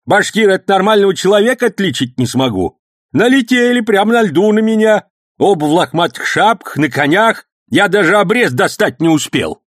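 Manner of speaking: put-on high, loud excited old man's story; heated old man. A narrator's reading. Old man heatedly telling the policeman about the attack. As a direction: rattle it off fired up.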